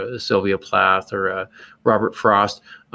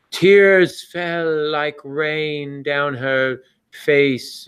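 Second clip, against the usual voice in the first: slow, hammed-up melodramatic reading; lightly mock-tragic storybook line; 4 semitones higher, much slower than usual. Shown as a demonstration. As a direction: read it like overwrought purple prose. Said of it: "tell everybody what purple prose is".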